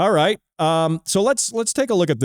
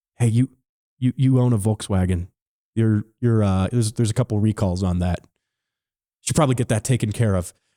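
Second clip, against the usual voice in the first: put-on mock-romantic whisper, lower pitch; 7 semitones lower than usual. Speaker imagines a woman whispering to the man beside her; imitating a romantic whisper. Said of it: "She she whispers".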